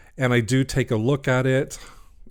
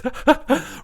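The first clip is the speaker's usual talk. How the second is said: giggle. Real, not acted. Giggle after guess what.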